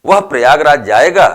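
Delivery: "वह प्रयागराज जाएगा" asked as a question, quick, rising at the end; question tune. Shown as a demonstration. Teacher reading the example with a question mark, questioning. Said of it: "वह है प्रश्नवाचक".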